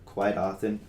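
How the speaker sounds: a slight crack in the voice. Real, not acted. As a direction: voice cracking mid-sentence. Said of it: "nice voice crack me".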